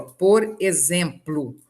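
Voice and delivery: "exemplo" com o o final soando como u; pronúncia falada. Shown as a demonstration. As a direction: diga "exemplo" devagar, terminando em -plu. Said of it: "eu tô falando exemplo". ("exemplo" terminado em u, pausado)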